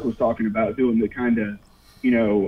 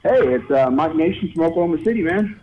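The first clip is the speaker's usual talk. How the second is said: caller on a phone line; thin call-in phone sound; over the phone; 4 semitones higher than usual. Real, not acted. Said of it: "we got another phone call".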